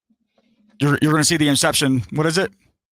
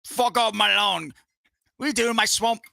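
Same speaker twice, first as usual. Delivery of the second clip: put-on London accent; 5 semitones higher than usual. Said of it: "I gave Shrek a fucking London accent".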